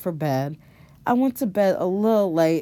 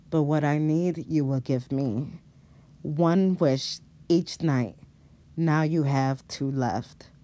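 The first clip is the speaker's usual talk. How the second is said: dark figure; 4 semitones lower than usual. Acted. Shadow demon bargaining with Robin, low and menacing. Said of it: "The dark figure says".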